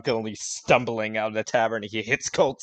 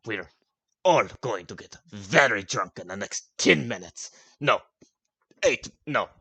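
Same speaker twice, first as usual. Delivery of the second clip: put-on a drunk giant counting and losing track; drunken rambling shout; 4 dB louder than usual. Gronk shouting and miscounting drinking order. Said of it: "and then goes".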